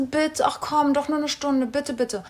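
mild mock begging; imitated pleading. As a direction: wheedle a little, retelling the plea. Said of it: "hat er mich angefleht".

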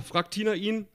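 usual speaking voice

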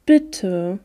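put-on pleading child's appeal, understated; flehend. A narrator's reading. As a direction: draw out a small, pleading request. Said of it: "sah sie unsere Mutter flehentlich an". (leicht flehendes Bitten)

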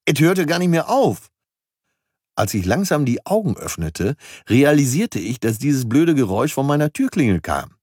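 lively audiobook reading of his own novel; story narration. A narrator's reading. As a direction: read it like an entertaining audiobook. Reads his audiobook aloud.

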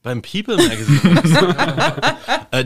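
amused, half-laughing answer. Real, not acted. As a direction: giggle while repeating the question. Laughing while answering the question.

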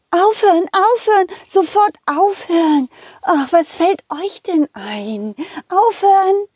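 put-on a teacher shrieking at soaking kids; furious high-pitched scolding; angry shout. Lemon teacher woken by water.

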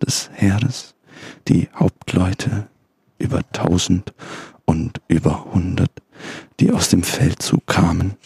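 slow, grave scripture reading; solemn Bible reading. Acted. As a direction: read it like a pastor from the pulpit. Reads Bible aloud, slow. (feierliche Bibellesung)

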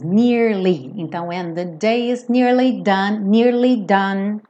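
nearly with a clear y, two syllables; nearly with the y sound. Shown as a demonstration. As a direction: say nearly as near-ly. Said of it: "esse Y no som do nearly".

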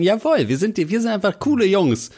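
high, proud mock redneck voice; playing smug cool truck guys.

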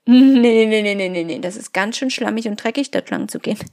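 loud burst of nee, settling back to normal talk; the stubborn head shooting the idea down; nervous mind refusing; protesting head voice. Acted. Head voice objects, dialogue.

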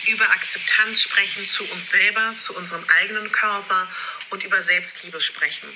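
re-recorded video audio; low quality stream. Real, not acted. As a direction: sounds played off a phone video. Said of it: "die ich wiederum hier wieder nochmal aufnehme".

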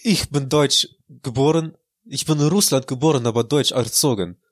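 lightly hammed-up Russian accent with broken German; fake Russian accent. Insists his Russian accent is real, still in mock Russian. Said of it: "dein russischer Akzent ... so fake klingt".

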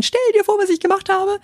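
high, excited gush; excited gossip. Shown as a demonstration. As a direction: gush like telling big news. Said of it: "wenn ich am Anfang aufgeregt bin".

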